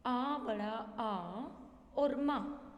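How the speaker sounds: आ बड़ा आ और माँ said slowly as separate letter names; teacher spelling आ बड़ा आ और माँ aloud for the class; slow spelled-out letters. Shown as a demonstration. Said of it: "मैंने कहा".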